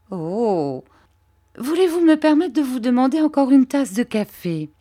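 oily, humble flattery, pitched a little up; Uriah Heep. Acted. Uriah fawning over Mr Copperfield, lightly voiced servile tone.

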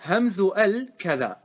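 reciting the verse line slowly; slow verse recitation. Shown as a demonstration. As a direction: chant the poem line, drawn out. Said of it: "قال الناظم". (تلاوة بطيئة لبيت النظم)

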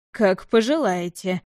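slow, dry, cold reply; dry and curt. Acted. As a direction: toss it off coldly. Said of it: "сухо бросил лорд Льен".

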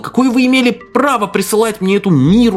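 furious rant. A narrator's reading. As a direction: let the fury boil over. Gerston furious at administrator.

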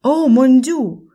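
slow, high, loud French exclamation; French accent. Acted. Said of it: "с французским акцентом".

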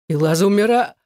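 loud, high desperate cry. A narrator's reading. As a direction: blurt it out as a yell. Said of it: "выкрикнул было он".

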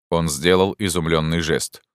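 ordinary delivery, nothing marked

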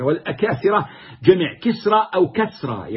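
كسرى said first with kasra as kisra, then with fatha as kasra; two vowelings. Shown as a demonstration. Teacher shows students both vowelings of the word, careful demo. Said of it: "يجوز بكسر الكاف وهو الأشهر أو بفتحه".

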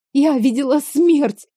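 usual speaking voice

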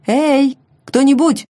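high plaintive call into silence. Acted. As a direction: call out, pitiful and alone. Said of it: "Голос в мёртвой тишине прозвучал жалобно".

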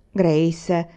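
mother says the name as a mild reproach; gentle warning. Acted. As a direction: rein her in without raising the voice. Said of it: "disse mamma". (richiamo di mamma, lieve rimprovero)

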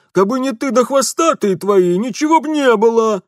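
high, loud outraged shopkeeper; indignant shopkeeper. Acted. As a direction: spit out the insult. Shopkeeper blames wife. (лавочник негодует)

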